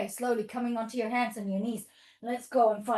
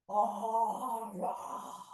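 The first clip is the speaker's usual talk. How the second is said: bear eating honey; 5 dB quieter than usual. Pretend. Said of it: "How does the bear eat all the honey?".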